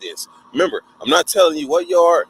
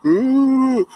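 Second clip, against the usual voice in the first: mock sob; 11 semitones higher, 3 dB louder than usual. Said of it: "I'm crying".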